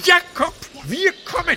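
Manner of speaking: high, loud call into the distance. Acted. Wilhelm calling out to his brother Jakob. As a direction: call out to reach him far away.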